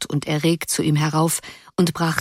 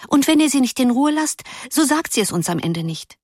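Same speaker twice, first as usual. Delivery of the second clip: put-on little girl; 7 semitones higher than usual. A narrator's reading. Blonde girl warns the others.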